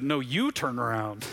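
slow, steady reassurance; dad calming his scared son, slow and steady. Retold or imitated. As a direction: gently tell him to look back. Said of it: "And his dad said".

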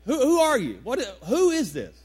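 loud, acted confusion on the phone; hammed-up baffled questioning; mock bewilderment. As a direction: demand to know who's calling, playing clueless. Acts out not recognizing wife on phone.

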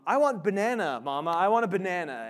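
put-on half-hearted toddler yell at mom; mild mock yell. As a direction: call out like an insistent little boy, lightly. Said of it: "yells at his mom".

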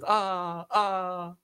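mock Ah, ah in an odd voice; hammed-up imitation of a cheesy cry; mock yell. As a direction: parody the hero's yell. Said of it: "då så var det hela tiden".

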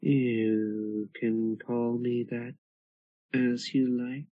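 slow drifting lilting voice; changeling voice. Acted. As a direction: lilt it slowly from behind. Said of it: "Comes the drifting, lilting voice of a changeling behind you".

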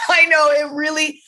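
high, loud teary laugh; laughing through tears. Real, not acted. Guest laughing tearfully at her own emotion. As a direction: laugh it off while welling up. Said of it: "Sorry, I'm getting teary".

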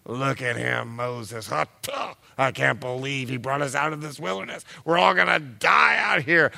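whiny grumbling crowd, rising to a shout; complaining Israelites. Acted. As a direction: moan and wail at Moses like a thirsty crowd. Grumbling Israelites voiced in story.

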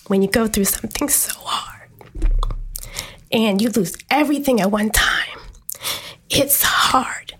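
breathy near-whisper, on the verge of crying; holding back tears. Real, not acted. Telling the group about her hardest years, close to tears. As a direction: fight back the tears as you say it. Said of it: "I'm not even gonna cry".

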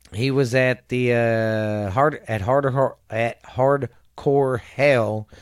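projected, deliberate read-out voice; reading aloud. Real, not acted. Reading a wrestler's career history to a listener, reading aloud. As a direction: read it out like a biography report.

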